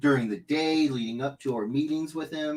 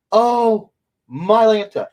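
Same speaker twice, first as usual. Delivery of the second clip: excited; 8 semitones higher, 12 dB louder, slower than usual. Real, not acted. Excited exclamation after joke.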